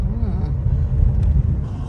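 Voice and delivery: chewing toffee. Real, not acted. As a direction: mouth full of toffee. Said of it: "Lee, you sucking on a mint?".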